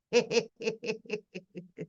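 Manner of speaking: soft tittering; quiet run of separate chuckles; laughing. Real, not acted. Streamer showing her hair pictures, laughing softly.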